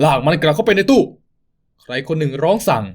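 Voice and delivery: ordinary talk, nothing marked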